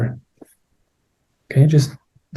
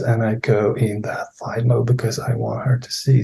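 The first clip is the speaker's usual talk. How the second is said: mild retold whisper; 6 dB quieter than usual. Client's words voiced by therapist.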